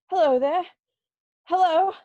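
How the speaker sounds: high, loud call to the street. Acted. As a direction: hail someone far off. Calling out the window.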